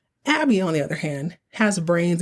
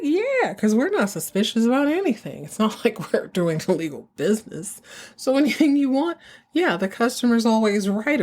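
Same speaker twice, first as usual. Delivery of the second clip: sarcastic mafioso; 5 semitones higher than usual. Retold or imitated.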